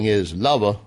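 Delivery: Southern-accented "lover", final r dropped; light Southern lilt, "lover" as "luvah". Real, not acted. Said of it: "I went Southern accent on you".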